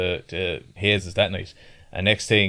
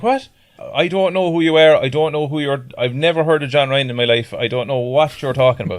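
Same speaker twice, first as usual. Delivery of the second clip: raised, insistent mock denial; lad denying; 5 semitones higher, 4 dB louder than usual. Lad gaslighting the drunk father. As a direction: deny everything, voice pitched up. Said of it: "he's like".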